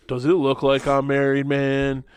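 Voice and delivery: laid-back, easygoing movie quote; casually quoted, in no hurry to impress; relaxed comeback. Retold or imitated. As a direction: toss it off as an unbothered retort. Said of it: "just relaxed comebacks".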